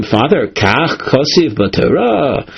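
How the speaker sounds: slow, puzzled asking as if surprised; a gentle show of wonder at the verse; wonderment. Shown as a demonstration. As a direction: ask it like you can't believe the verse says that. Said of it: "with an expression of wonderment".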